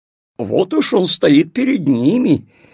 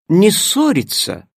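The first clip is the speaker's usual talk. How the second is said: stern command; 5 semitones higher than usual. Acted. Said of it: "топнула ногой фея".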